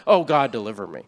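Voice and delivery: rote prayer. Shown as a demonstration. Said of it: "you might pray that prayer".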